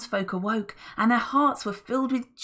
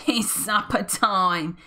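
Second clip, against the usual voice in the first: gleeful cackle; 4 dB louder, slower than usual. Acted. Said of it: "he cackled".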